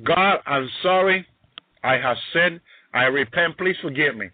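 humble confession from the heart; heartfelt apology. Acted. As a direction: plead sincerely for forgiveness, without raising the voice. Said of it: "say from his heart".

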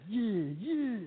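put-on cocky practice run of a black American accent; rehearsing black American talk on the plane, hammed up; practiced black American accent.

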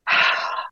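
a long, soft release sigh; demo sigh. Shown as a demonstration. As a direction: let a breath go, the way it happens while tapping. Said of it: "Like this".

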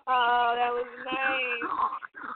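talking through laughter; real amused laugh through the words. Real, not acted. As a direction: laugh out the praise. Laughing at Ron's comeback.

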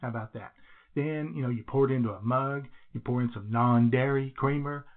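echoey bathroom recording. Real, not acted. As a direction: speak in a small echoing bathroom. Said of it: "do I sound a little echoey today?".

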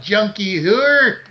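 shouted out the window, slowing at the end; yelling at her. Retold or imitated. Host yells from his window at the junkie, mock shout. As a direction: bark it from the window to chase her off. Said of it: "I'm like".

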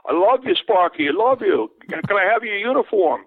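imitating an adoring fan yelling; calling fan. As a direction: beg the player from the stands.

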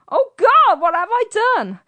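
high, loud, fast panicked shriek; mock scream. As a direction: shriek it like a panicked old lady. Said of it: "Mabel screamed".

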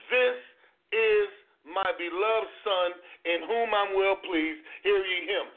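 slow, measured, solemn proclamation; voice of God from the cloud. Retold or imitated. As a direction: speak it slowly as the voice from heaven. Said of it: "a voice came out of the cloud which said".

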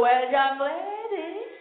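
slow, drawn-out scolding; stern mom. Retold or imitated. Mother lecturing daughter while brushing her hair, slow and stern. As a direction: lecture the young lady.

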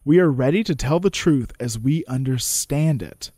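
measured courtroom oration, slowed on key lines; oratory reading. Acted. Reading Malone's speech to the court, measured oration. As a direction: deliver it like a closing argument.

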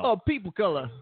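high-pitched, badly faked Black accent; attempted Black accent. Shown as a demonstration. Asked to use one of their accents, badly faked Black accent. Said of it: "that's a black accent".

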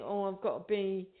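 a light send-up of a man acting strong; lightly voiced bloke playing it strong; mock tough bloke. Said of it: "men think".

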